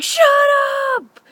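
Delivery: high mock shout; imitating an irritated dad yelling. Woken dad yells at whispering daughters, irritated.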